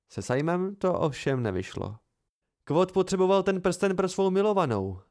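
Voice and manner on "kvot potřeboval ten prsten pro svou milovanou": lightly voiced, a touch higher and merry; cheerful chirp. Sim cheerfully covers for his friend, mild chirpy tone. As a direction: chirp it out cheerfully, half-joking. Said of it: "zašvitořil zvesela".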